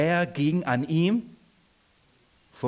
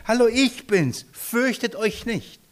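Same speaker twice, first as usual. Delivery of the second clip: higher, cheerful, then slow and soothing; Jesus greeting; 7 semitones higher than usual. Acted. Jesus reassures the frightened disciples, cheerful then slow. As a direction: greet them happily, then calm them slowly. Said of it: "guckt mal".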